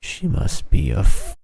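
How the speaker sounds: mock accuser building to a long, drawn-out cry; witch-trial accuser. Friend imagines a witch-trial accuser condemning a girl, hammed-up. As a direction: play an over-the-top witch hunter. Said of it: "could you imagine being like".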